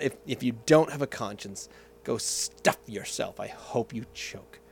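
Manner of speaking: put-on Russian accent. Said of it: "then he says that line".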